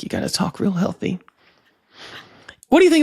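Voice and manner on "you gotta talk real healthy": vocal fry. Shown as a demonstration. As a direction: drag it out in creaky fry. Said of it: "As I say that kind of vocal fry into the mic".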